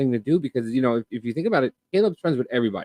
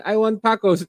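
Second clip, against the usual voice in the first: high mock quote; 8 semitones higher, 5 dB louder than usual. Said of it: "and then".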